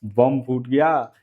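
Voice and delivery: mildly hammed-up alarm, as if mimicking the group; playful imitation of a fuss; mock uproar. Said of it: "हो हल्ला मचा रहे हैं".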